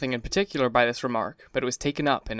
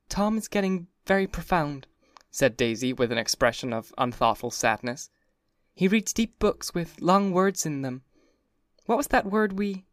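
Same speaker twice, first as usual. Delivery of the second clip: mocking Daisy; 6 semitones higher than usual. A narrator's reading.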